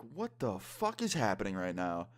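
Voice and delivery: slow, drawn-out mock bewilderment; stunned disbelief. Friends watching the teacher smoke, slow stunned disbelief. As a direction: stretch it out in imitated shock.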